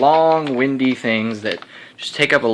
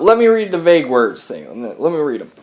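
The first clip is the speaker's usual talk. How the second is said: put-on Texas accent; 2 semitones higher than usual. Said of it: "I got a Texas accent because I'm his alter ego".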